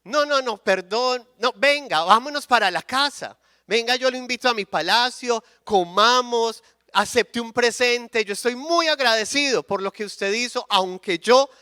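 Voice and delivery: rey Jeroboam efusivo, voz más aguda; rey agradecido. Acted. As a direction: insistente y agradecido, invitando con ganas. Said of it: "Jeroboam queda tan agradecido que le dice". (el rey agradecido invita al profeta a su palacio, con voz algo más aguda)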